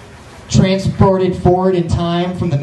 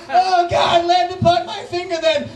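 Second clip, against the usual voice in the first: very high, shouting princess; exasperated princess; 12 semitones higher than usual. Pretend. Princess shouting at the butterfly to land, very high. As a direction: snap it like a fed-up princess.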